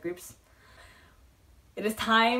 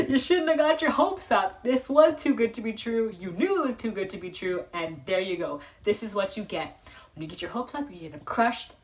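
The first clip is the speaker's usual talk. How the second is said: a hint of a stern inner voice, higher at first; lightly mock-lecture yourself; scolding inner voice; 3 semitones higher, 5 dB louder than usual. Fan scolding herself for getting her hopes up, mock stern. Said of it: "I just kind of wish I was like".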